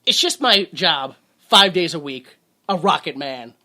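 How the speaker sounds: half-sing it with big swells; belted reading. Acted. Host joining the song-lyric reading, loud and swelling. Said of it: "spoken word dramatic reading".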